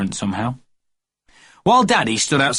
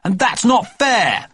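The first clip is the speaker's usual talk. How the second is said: indignant protest; 9 semitones higher, much slower than usual. A narrator's reading. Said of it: "said Jeremy James".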